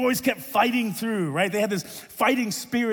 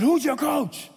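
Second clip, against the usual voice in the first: higher-pitched, pointed demand; mock demanding; 5 semitones higher, slower than usual. Coach challenging his confused player, mock demanding. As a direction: act out a coach demanding an answer.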